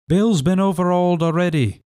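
high, rough sailor voice; pirate voice. A narrator's reading. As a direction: report it grimly from the doorway. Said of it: "said he".

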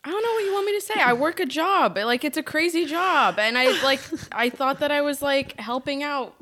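high-pitched, put-upon self-defence; defensive protest. Retold or imitated. Friend voices own defence.

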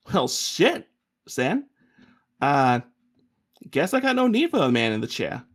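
sarcastic. Acted. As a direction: scoff at the easy request. Sarcastic cousin on phone.

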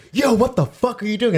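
high angry yell. Retold or imitated. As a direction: shout it at the crowd. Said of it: "then they're like".

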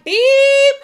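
loud high beep; horn imitation. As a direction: honk the word beep. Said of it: "It was like".

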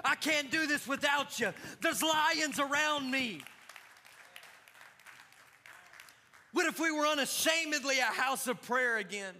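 rising, emphatic preacher's push; preaching. Acted. Preacher exhorting church to pray at home, full preaching. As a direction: drive it home to the congregation.

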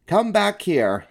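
put-on high, loud, drawn-out boyish demand; yelled. A narrator's reading. Sulky boy calls to Stuart on the pond, yelling. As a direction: yell it out slowly across the water. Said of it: "he yelled to Stuart".

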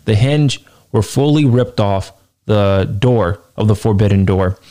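usual speaking voice

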